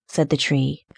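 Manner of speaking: usual speaking voice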